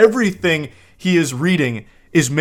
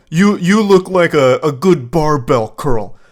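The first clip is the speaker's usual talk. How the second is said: louder hammed-up gym bro flirting; mock gym bro; 5 dB louder than usual. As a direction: pump it up like a cheesy gym flirt. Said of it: "Like, yeah".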